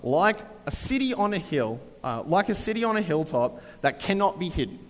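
Jesus proclaiming. Retold or imitated. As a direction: declare it like a teacher on a hill. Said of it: "He's like".

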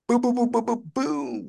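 high, bouncy boom ad-libs; a rapper's ad-lib. Pretend. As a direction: toss out the booms like a rap ad-lib. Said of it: "you sound like a rapper".

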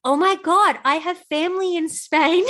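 high, excited mock gush; gushing teen girl. Mocking her teen self to a friend, high gushing voice. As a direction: play your teen self gushing over him. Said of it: "And I'm like".

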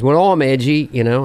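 rough attempt at an Australian accent; lightly voiced Australian comic. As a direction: quote him with a loose Australian twang. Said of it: "Sorry, it's not my best accent".

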